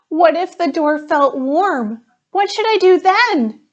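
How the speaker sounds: put-on a scared kid quizzing her teacher; little girl fretting, pitch climbing; anxious girl asking. Jessica asks the teacher anxiously.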